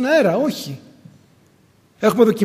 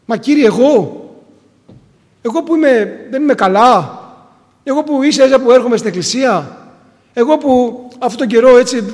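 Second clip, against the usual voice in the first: louder, whiny string of excuses; pleading protest; 2 semitones higher, 4 dB louder than usual. Pretend. Believer objecting to the Lord's command, pleading and louder. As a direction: protest your own weakness to God.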